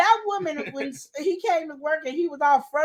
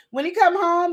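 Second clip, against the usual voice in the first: ordinary talk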